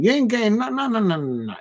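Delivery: high, protesting string of noes; emphatic refusal. Real, not acted. Fan telling rivals they won't get his player, indignant. Rejects rival club's transfer claim.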